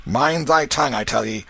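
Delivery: growled warning. Acted. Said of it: "He growled these words".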